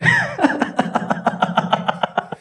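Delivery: long high-pitched laughing fit; demonstrated big laugh. Shown as a demonstration. Teacher demonstrating comic rasa, high laughing fit. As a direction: burst into helpless comic laughter. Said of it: "हास्यरस".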